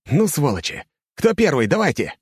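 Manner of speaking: shouting. A narrator's reading. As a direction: bellow the dare to the crowd. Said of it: "кричу остальным".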